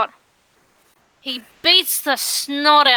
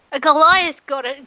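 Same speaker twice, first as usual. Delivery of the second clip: ordinary talk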